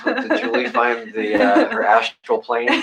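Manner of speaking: very high, slow teasing question; mock mystical. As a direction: tease her in a high, slow voice.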